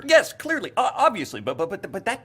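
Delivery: high, loud flustered burst; flustered protest. Acted. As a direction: blurt it out in a nervous panic.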